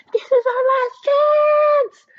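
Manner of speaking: very high, loud, slow rallying yell; urgent desperate yell. Acted. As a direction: shout to the team as a last call. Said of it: "Rebecca yelled".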